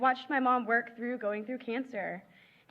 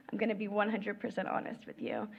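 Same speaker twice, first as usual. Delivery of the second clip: ordinary talk, nothing marked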